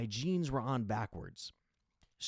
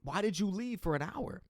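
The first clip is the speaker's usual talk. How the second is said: higher-pitched mock sister scolding; imitating sister; 7 semitones higher than usual. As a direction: play the annoyed sister demanding answers. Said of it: "She's like".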